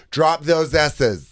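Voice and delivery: slow, deliberate coaching; dialect coach. Acted. Coach at conversion camp to pupils, slow instruction. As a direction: draw each word out like a dialect coach. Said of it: "this is your dialect coach".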